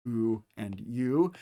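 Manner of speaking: "oo" and "u" drawn out slowly, each vowel held clearly; slow, careful vowel modelling for a class; slow diphthong demo. Shown as a demonstration. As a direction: sound out "oo" and "u" carefully for students. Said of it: "these two being diphthongs".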